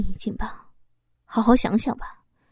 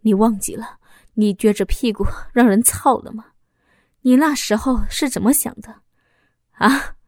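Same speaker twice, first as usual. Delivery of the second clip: bitter, rising accusation; pained accusation. Acted. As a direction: hurl the betrayal back at her. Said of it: "痛苦地说着". (丈夫痛苦地质问出轨的妻子)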